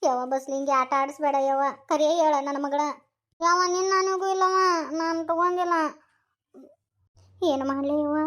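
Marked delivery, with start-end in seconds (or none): 3.4-5.7 tearful denial. Acted. Daughter denies, accused of theft.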